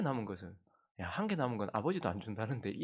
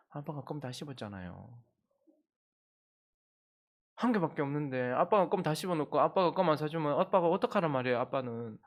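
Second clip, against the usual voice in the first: put-on a kid suddenly switching to blame; hammed-up whiny accusation; indignant child; 3 semitones higher than usual. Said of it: "태도를 탁 바꾸는 거예요".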